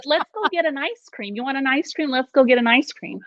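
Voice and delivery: high, soft, casual invitation; a breezy cover line, lightly sung; sing-song code phrase. Retold or imitated. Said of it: "our code word for getting out of the house".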